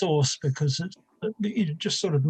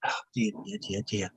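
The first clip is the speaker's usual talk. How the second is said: muttered aside; 7 semitones lower, 8 dB quieter, faster than usual. Real, not acted. Aside while phone interrupts.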